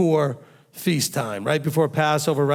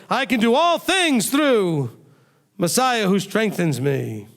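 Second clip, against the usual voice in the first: slow, higher, confident proclaiming of the verse; proud declaration; 4 semitones higher, slower than usual. Retold or imitated. Believers reciting the verse back in the day, proudly and slowly. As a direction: declare it like you own it, drawn out. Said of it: "we love to say back in the day".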